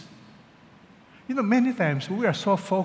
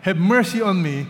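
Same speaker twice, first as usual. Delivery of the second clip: crying out; 3 semitones higher, 7 dB louder than usual. Acted. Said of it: "He kept crying".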